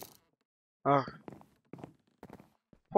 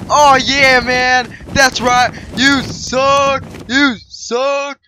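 gloating victory; 2 semitones higher, 3 dB louder, much slower than usual. Real, not acted. Victory gloating after hiders win.

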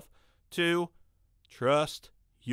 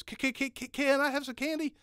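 imitating a stutter; 11 semitones higher than usual. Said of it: "he stutters sometimes".

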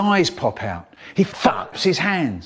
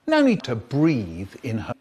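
ordinary delivery, nothing marked

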